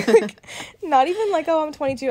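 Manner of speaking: giggling at her own blunder; laughing. Real, not acted. Laughing as she tells her friend about the age slip.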